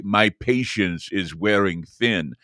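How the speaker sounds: slow quote. Retold or imitated. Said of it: "Joe Biden say".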